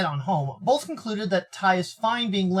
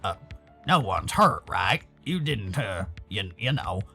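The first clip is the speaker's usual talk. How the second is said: low, soft, halting voice; timid, faltering question; hesitant worry; 9 semitones lower, 4 dB quieter, slower than usual. Acted. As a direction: trail off awkwardly, afraid to ask. Timid character asks hesitantly.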